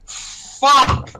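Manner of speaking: high, strained acted yell. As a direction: let the built-up curse burst out in a yell. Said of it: "He starts yelling".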